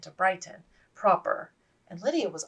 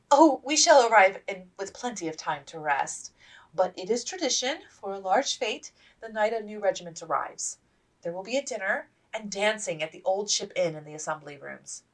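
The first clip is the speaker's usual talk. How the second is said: gentle; 3 semitones higher, 4 dB louder than usual. Acted. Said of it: "gently placing a hand".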